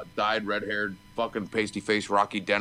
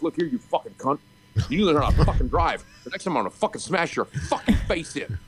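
retold angry threat; 4 semitones higher than usual. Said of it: "And I'm like".

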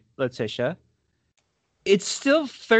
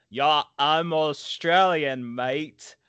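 mock Australian accent; much slower than usual. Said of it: "She's like".

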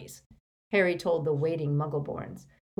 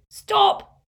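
much higher, loud commanding bellow; thundered; 11 dB louder than usual. A narrator's reading. Harry as Runcorn halting the wizards, thundering. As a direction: thunder it across the hall. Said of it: "Harry thundered".

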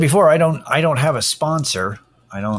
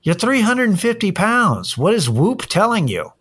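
incredulous mockery; 10 semitones higher than usual. Mocking a heavy podcaster's fitness band ad, incredulous. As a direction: pitch jumps way up in disbelief, then settles. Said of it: "you're like".

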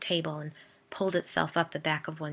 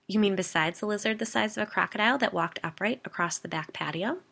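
higher-pitched sarcastic question; 4 semitones higher than usual. A narrator's reading. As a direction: ask it with pointed mock incredulity. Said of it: "I said sarcastically".

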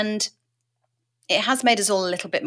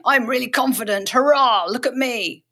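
boastful show-off; 5 semitones higher than usual. Retold or imitated. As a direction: show off like a braggart. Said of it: "rather than going".

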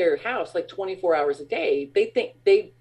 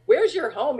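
puzzled question; 7 semitones higher than usual. Retold or imitated. Retold reply to vendor's invitation.

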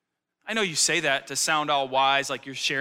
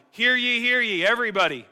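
loud, high "hear ye" proclamation; town crier; 4 semitones higher, 5 dB louder than usual. Retold or imitated. Pastor imitates a crier calling everybody, loud and high. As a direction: call out to the whole square like an old herald. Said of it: "hearkening back to old times of like".

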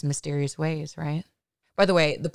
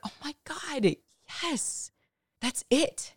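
excited; 10 semitones higher, 3 dB quieter, slower than usual. Retold or imitated. Sudden realization of the idea.

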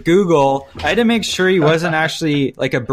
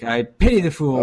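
lightly voiced tough-guy catchphrase; a hint of Mister T swagger; Mister T impression. Podcaster quoting the Rocky three villain, light tough-guy impression. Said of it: "Mister T".

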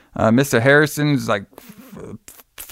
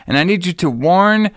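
firm, pressing instructions, pitched up; acting out an urgent police order; 4 semitones higher than usual. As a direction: lay it out insistently. Lieutenant urgently instructing sergeant by phone.

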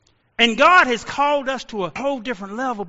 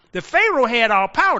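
ordinary talk

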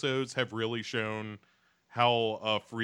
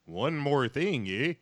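put-on Canadian accent; 4 semitones higher than usual. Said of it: "it just became Canadian where he was like".

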